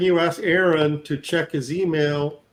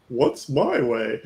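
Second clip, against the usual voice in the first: slow giant voice; slower than usual. Retold or imitated. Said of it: "And the giant says".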